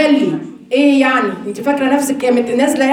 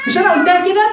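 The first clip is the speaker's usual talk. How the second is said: anxious insisting; 6 semitones higher, faster than usual. Retold or imitated. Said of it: "فعايزة أثبت إن هي صح".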